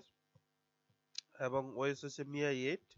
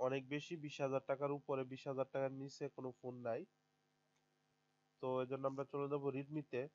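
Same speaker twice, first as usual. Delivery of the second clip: talking with a blocked nose from a cold; sick, congested voice with a stuffy nose; 6 dB quieter than usual. Real, not acted. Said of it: "sorry, আমি একটু অসুস্থ". (বন্ধ নাক, সর্দি লাগা গলা)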